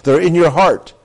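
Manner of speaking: "They're in your heart" high and loud; "They're in your heart" called out loud and high; ringing proclamation. Acted. Preaching climax.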